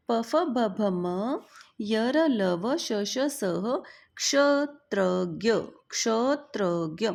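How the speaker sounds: measured class recitation of क ख ग, pausing between rows; alphabet recitation. Shown as a demonstration. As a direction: recite क ख ग घ in rhythmic groups of letters. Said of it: "चलिए हम इसको सीखते हैं अब".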